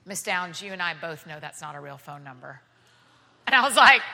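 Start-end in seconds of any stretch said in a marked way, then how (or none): 0.1-2.6 stern officer. Retold or imitated.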